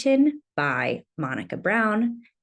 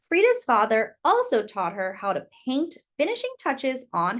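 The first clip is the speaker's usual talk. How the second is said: gentle, lilting picture-book reading; reading to children. Acted. Teacher reading a picture book to children, gentle and lilting. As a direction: read it like storytime for little kids.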